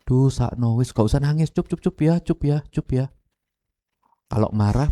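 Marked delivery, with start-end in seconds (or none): 0.0-3.1 acted hushing of a little one; soothing crying child. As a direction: coo repeated little there-theres. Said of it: "lah, anak nangis".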